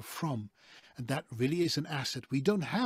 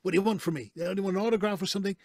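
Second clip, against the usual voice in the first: mildly standoffish, mimicking wary TV stars; quick, slightly raised mock wariness; 4 semitones higher, 3 dB louder, much faster than usual. Imitating TV people on guard with fans, standoffish. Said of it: "They're very, very standoffish".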